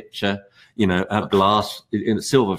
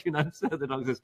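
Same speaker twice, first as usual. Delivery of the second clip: ordinary talk, nothing marked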